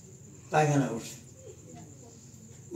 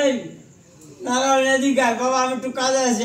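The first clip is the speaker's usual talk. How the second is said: calling out; 4 semitones higher, 5 dB louder than usual. Retold or imitated. Guru calls disciple from afar.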